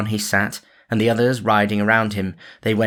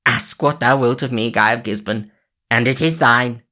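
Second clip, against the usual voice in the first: cried out; 4 semitones higher, 5 dB louder than usual. A narrator's reading. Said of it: "cried he".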